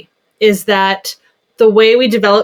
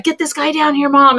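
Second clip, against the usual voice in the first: put-on higher child's demand; voicing the son's request, pitched up; imitating her son; 6 semitones higher than usual. Mom retelling her son's request in a higher voice. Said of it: "So he's like".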